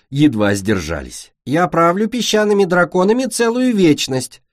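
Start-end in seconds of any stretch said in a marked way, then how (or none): 1.4-4.4 mock queen. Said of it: "продолжала королева".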